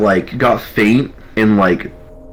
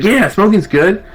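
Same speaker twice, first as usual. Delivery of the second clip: much higher, dopey eager voice; dopey drunk private; 13 semitones higher, 4 dB louder than usual. Retold or imitated. Drunk private hearing about a smoke break, eager and dopey. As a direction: play the kid who perks up at the word.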